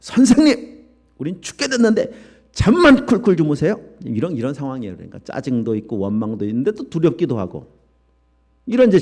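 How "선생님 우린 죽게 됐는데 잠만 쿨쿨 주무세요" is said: high, exasperated whine at the sleeping teacher; irritated complaint. Acted. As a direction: snap at him for sleeping through it. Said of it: "짜증이 막 이만큼 올라와서".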